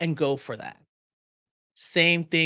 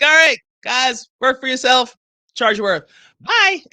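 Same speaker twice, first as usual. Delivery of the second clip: mock farewell; 4 semitones higher, 9 dB louder than usual. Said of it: "I'm like".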